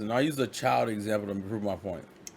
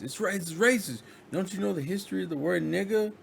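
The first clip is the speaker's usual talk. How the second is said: raised, indignant lecturing pitch; indignant scolding; 8 semitones higher than usual. Retold or imitated. Black girl scolding her white friend, high and indignant.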